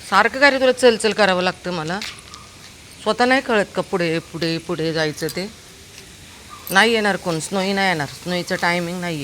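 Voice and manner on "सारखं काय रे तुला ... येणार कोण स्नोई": exasperated scolding. Real, not acted. Owner scolding her dog for needing constant prodding, exasperated. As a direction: tell him off for stalling.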